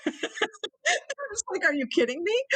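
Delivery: crying as she relives it; tearful. Real, not acted. Recalling the brewery offer, tearfully amazed.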